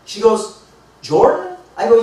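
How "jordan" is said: high-pitched questioning echo of a name; surprised. Retold or imitated. Woman hearing a new acquaintance's name, surprised. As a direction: imitate her astonished double-take on the name.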